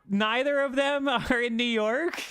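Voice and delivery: laughing disbelief. Real, not acted.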